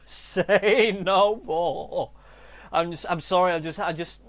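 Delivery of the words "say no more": very slow, drawled "Say no more"; drawn-out repeat. Real, not acted. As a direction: SAY stretched very long. Repeats phrase, stretched out.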